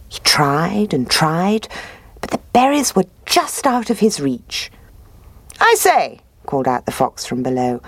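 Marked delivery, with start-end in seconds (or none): 5.6-6.2 high, smooth sly fox; higher voice for the sly fox. Acted. Fox calls up to bear.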